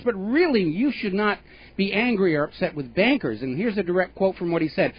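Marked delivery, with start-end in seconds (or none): 0.0-3.4 mock banker. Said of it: "basically going on and saying".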